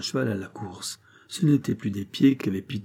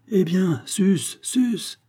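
high, rousing call; high-pitched rallying cry; urging on; 8 semitones higher, much slower than usual. A narrator's reading. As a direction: spur someone to get up and go. Farmer urges Pitou up.

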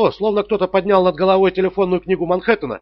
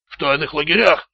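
strained, croaking answer from a hurt man; hoarse croak. A narrator's reading. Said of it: "прохрипел Раттер". (хрипло, с трудом)

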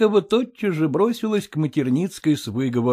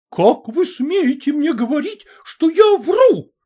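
much higher, slow, outraged; outraged raised voice; 12 semitones higher, 4 dB louder, slower than usual. A narrator's reading. Mother takes offence at being called a liar, outraged. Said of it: "Ещё больше возвысила голос".

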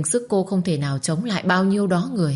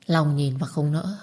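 plain reading voice

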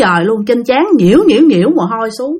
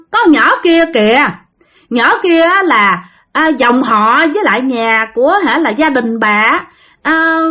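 higher, gentler spirit pleading its case; softened spirit voice; 6 semitones higher than usual. Acted. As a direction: speak as a ghost that has calmed down. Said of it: "vong này bắt đầu nhẹ giọng".

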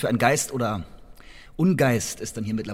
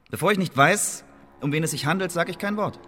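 flat refusal flung at the judge; defiant outburst; 6 semitones higher than usual. Acted. Defiant refusal during the interrogation.

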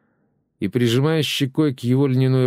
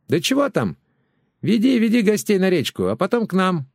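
high, brash neighbour's voice; chatty neighbour woman; 8 semitones higher than usual. Acted. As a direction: neighbour Valyushka pestering over the fence. Neighbour insists over the fence.

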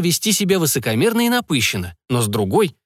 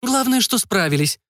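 conciliatory; 9 semitones higher than usual. A narrator's reading. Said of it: "примиряюще внесла свою лепту".

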